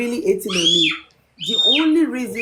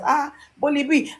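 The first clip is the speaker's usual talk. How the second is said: higher-pitched exclamation of mild surprise; retold surprise; 5 semitones higher than usual. Panelist retelling how she greeted her on the live, mildly surprised. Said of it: "she was so surprised".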